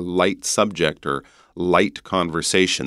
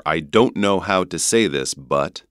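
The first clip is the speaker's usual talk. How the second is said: North American "know" and "but"; North American accent. Shown as a demonstration. Teacher offering the other version, North American accent. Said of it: "That would be North American accent".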